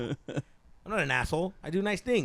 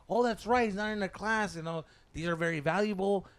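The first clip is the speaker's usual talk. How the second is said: lightly voiced, higher-pitched teacher; imitated teacher; 4 semitones higher than usual. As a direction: play the teacher explaining to class. Voices teacher addressing the class.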